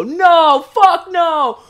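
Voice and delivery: high, loud mocking road-rage shout; exaggerated angry classmate shouting; imitated angry yell. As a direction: yell at the stalled truck like a furious driver. Angry drivers yelling out windows.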